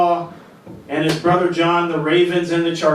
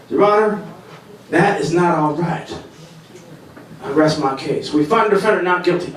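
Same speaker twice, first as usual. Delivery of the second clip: McConaughey impression. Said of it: "my impression of, uh, Matthew McConaughey".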